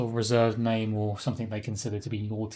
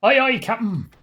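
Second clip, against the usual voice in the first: higher, louder echo of a crewman; mock sailor's reply; 10 semitones higher, 7 dB louder than usual. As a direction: lightly parody an eager deckhand. Echoes the game's crew member.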